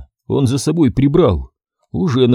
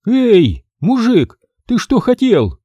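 окрик мужика; 10 semitones higher, slower than usual. Acted. Новый персонаж окликает.

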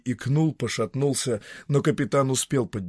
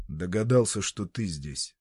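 calm; 4 semitones lower than usual. Acted. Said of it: "спокойно ответил Иеронимус".

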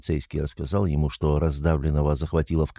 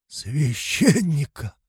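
медленный, тянущийся хрип умирающего; выдохни слово с трудом, хрипло; хриплым голосом; 7 semitones higher, much slower than usual. A narrator's reading. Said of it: "проговорил он хриплым голосом". (умирающий хрипло просит священника, медленно)

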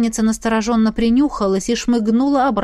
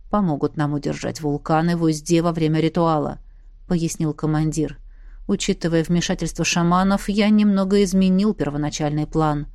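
lower, steady commander voice; low calm commander; 4 semitones lower than usual. Acted. Пояснил командир. (спокойный голос командира)

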